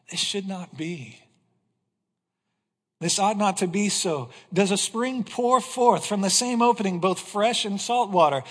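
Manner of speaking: solemn, measured reading of James; scripture reading. Acted. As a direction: read the apostle's words to the church. Reads James 3.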